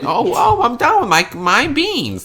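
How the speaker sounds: high, loud silly creature voice; hammed-up green child gloating; mock alien kid voice. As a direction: friend mocks the green children's voice. Mocking green children talk.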